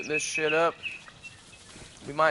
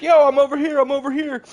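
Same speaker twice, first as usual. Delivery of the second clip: reenacting own call; 10 semitones higher, 9 dB louder than usual. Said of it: "I was like".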